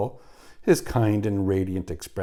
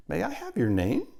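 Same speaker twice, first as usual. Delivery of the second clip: polite; 9 semitones higher than usual. A narrator's reading. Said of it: "she asked politely".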